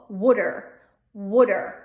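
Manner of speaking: "water" said as wooder; "water" with a short u and a d in the middle; Delco water. Shown as a demonstration. Teacher shows "water" the Delco way, as wooder. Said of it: "that short U sound".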